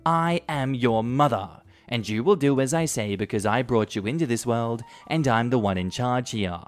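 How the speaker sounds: a hint of an overbearing mum laying down the law; domineering mother. Mother claiming her son's house, mild imperious rant. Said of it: "My mother started snapping her fingers at me".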